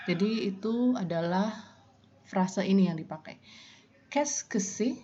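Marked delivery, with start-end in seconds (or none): 4.1-5.0 higher, careful Qu'est-ce que c'est; high model question. Shown as a demonstration. Teacher models the question for the class in a raised voice. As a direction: pitch it up for learners to copy. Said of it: "Saya ulang".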